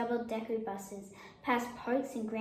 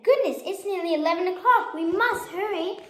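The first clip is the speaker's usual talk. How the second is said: high, urgent exclamation; startled, we're late; hurried alarm; 7 semitones higher, 7 dB louder than usual. A narrator's reading. Lion alarmed at the time.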